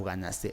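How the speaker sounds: "ganaste" with the final TE stressed. Shown as a demonstration. Teacher offering the last option, stressed on TE. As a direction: say "ganaste" as ga-nas-TÉ. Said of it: "¿Cuál es la sílaba tónica?".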